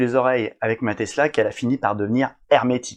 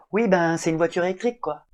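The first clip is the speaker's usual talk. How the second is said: unimpressed wife; 5 semitones higher than usual. Retold or imitated. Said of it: "je limite très mal".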